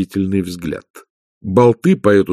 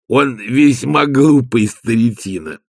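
lightly voiced Igor; 3 semitones higher, slower than usual. Igor describing his patchwork dog.

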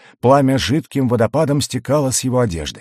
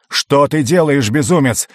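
raised voice, struggling against bonds; shouting; 4 semitones higher, 3 dB louder than usual. Acted. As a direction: cry out at a madman. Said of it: "вскричал маг".

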